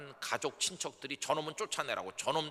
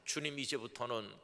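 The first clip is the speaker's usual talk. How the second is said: higher, louder heartfelt prayer; fervent prayer; 5 semitones higher, 3 dB louder than usual. Shown as a demonstration. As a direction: pour it out to God. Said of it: "이런 기도를 했습니다".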